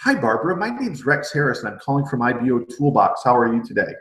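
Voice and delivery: bright, gentle, unhurried greeting; right way, friendly. Shown as a demonstration. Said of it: "I'm gonna be like".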